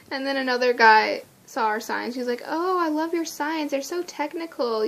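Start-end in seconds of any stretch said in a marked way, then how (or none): 2.5-4.9 higher, admiring lilt; mildly hammed-up enthusiasm; gushing admirer. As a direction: imitate a stranger gushing with praise. Admiring guy retold.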